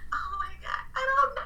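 high breathless giggle into words; flustered laugh. Real, not acted. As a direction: caught off guard, laughing high. Put on the spot about crush.

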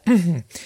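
rough clear of the throat. Real, not acted. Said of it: "ma non ho più voce".

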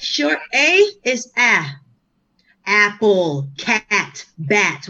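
short A drawn out slowly, then "Apple, cat, bat"; short A sound. Shown as a demonstration. Host teaching a guest vowel sounds, short A demo. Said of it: "That's how you say it".

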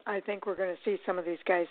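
hiccuping through the words; talking with hiccups. Real, not acted. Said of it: "I've got the hiccups".

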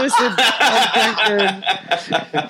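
slow, drawn-out mock intro, laughing; slow laughing fake introduction. Shown as a demonstration. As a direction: spell it out slowly like a confession, laughing. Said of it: "That's how you should introduce yourself".

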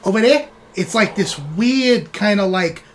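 cursing, wary rat report; wiseguy rat. Acted. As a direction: rat describing a creepy pool. Rat reports swamp room.

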